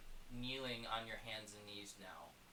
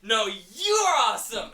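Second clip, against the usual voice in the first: loud, high, slow hammy movie star; Keanu Reeves voice; 12 semitones higher, 26 dB louder, slower than usual. Acted. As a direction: drawl it out as a cheesy star. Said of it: "Keanu Reeves walks through the front door".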